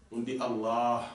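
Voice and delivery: Allah with the long vowel stretched; drawn-out Allah. Shown as a demonstration. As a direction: pull out the second a of Allah. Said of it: "On tire". (Allah avec le a tiré, allongé)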